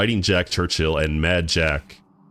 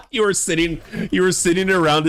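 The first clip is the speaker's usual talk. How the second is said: higher-pitched, real amusement; laughing; 12 semitones higher than usual. Real, not acted. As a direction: laugh while picturing a silly scene. Amused imagining bagpipes at game table.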